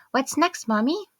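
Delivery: put-on high bouncy child voice, rising end; eager little girl. Daughter bounding back to mommy, eager child voice. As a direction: ask brightly like an excited kid. Young daughter speaking in story.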